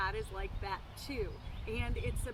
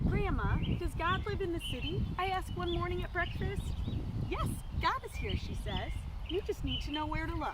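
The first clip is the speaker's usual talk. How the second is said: expressive storybook reading with measured pauses; story read-aloud; 2 semitones higher than usual. Acted. Sharing a book about God with listeners, story read-aloud.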